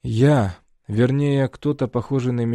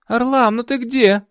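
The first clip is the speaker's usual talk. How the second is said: languid woman; 13 semitones higher, 7 dB louder than usual. A narrator's reading. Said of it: "Голос томный".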